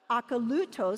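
Akalutos with the LU stressed; stress on third syllable. Shown as a demonstration. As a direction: lean on LU in Akalutos. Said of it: "can you say it with me".

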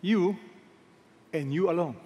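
You set apart, then and you alone after a pause; stress on You. Shown as a demonstration. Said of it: "That's emphatic".

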